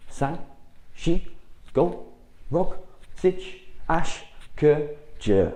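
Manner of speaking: loud, high drill count; sharp dojo counting; called count. Shown as a demonstration. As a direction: bark each number to the class. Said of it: "Let's go again a bit quicker".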